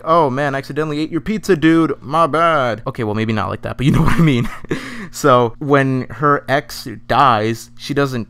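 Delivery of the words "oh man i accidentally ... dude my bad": mock casual apology. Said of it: "She felt bad like".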